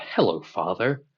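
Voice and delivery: proper and respectful, a touch stiff; formal greeting. Shown as a demonstration. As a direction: greet him with courtly formality. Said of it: "Like, not".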